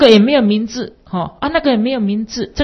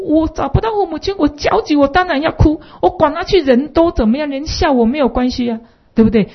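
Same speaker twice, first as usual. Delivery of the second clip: lightly voiced child, pitched higher; frank child; 7 semitones higher than usual. Honest child explaining his tears to mother, higher voice. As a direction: speak plainly like an honest little boy. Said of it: "孩子很坦诚".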